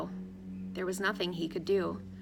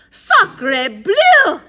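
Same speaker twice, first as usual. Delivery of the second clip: high, loud French exclamation; theatrical outburst, pitched way up; shouted cry; 11 semitones higher, 15 dB louder than usual. A narrator's reading. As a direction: cry it out at full voice. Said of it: "cried Addison".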